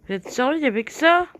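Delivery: high, loud outraged question; are you kidding me; indignant disbelief. Real, not acted. Outraged at empty chest.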